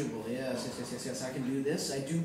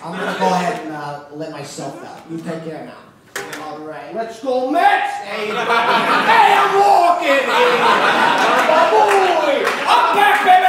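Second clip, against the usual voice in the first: put-on New York accent; 8 semitones higher, 14 dB louder than usual. Same brash voice leaving.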